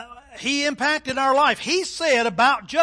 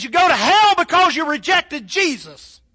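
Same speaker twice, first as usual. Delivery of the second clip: louder, higher imitation of a southern-drawl preacher; Billy Graham's southern drawl; 5 semitones higher, 6 dB louder than usual. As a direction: proclaim it with a hint of southern drawl. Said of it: "just in that southern drawl".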